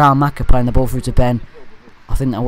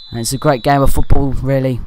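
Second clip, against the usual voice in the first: sarcastic. Acted. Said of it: "being sarcastic".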